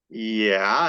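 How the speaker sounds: drawn-out, rising yeah through an awkward smile; hesitant reply, imitating a guitarist caught off guard. Guitarist answering a fan who recognized him, awkward. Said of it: "awkward smile and he's like".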